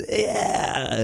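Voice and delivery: soft, high, strained attempt at falsetto; failed falsetto. Shown as a demonstration. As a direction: reach weakly for a falsetto and miss. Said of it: "I can't do the falsetto".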